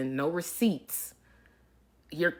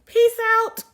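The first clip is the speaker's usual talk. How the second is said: mocking peace out; 11 dB louder than usual. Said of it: "And it was like".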